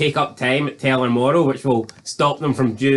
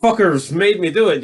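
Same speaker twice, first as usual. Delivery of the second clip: mock whiny apology; 5 semitones higher than usual. Club man excusing himself to Luann, mock grovelling apology. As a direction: play up a pleading, put-upon apology. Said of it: "like a wee bitch angel".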